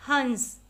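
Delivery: हंस said with the vowel through the nose; teacher models nasal हंस; nasal demo word. Shown as a demonstration. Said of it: "केवल नाक से उच्चारण".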